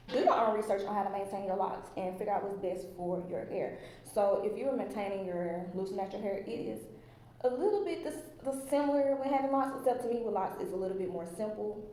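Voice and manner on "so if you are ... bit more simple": echoey room sound; echoing in a bare room. Real, not acted. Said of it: "do y'all hear the echo in here?".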